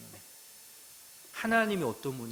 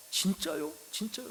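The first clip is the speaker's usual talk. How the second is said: put-on excited child; 7 semitones higher than usual. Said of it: "너무 좋아서".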